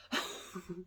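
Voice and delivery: quiet little laugh to oneself; short chuckle. Real, not acted. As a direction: give a small, soft laugh. Chuckles after remarking on heat.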